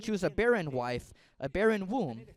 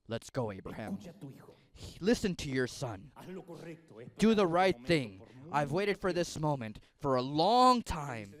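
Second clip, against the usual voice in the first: voice of God; 3 semitones lower than usual. Acted. God speaking throughout heaven.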